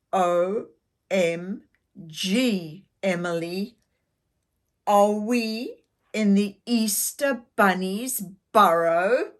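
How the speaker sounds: amazed. Acted. Mel amazed spelling OMG.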